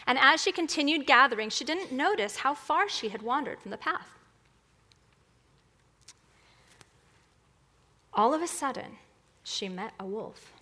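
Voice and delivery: storybook reading with lilting pitch; animated children's story narrator; fairy tale narration. Acted. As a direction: tell it like a bedtime story. Tells fairy tale to congregation.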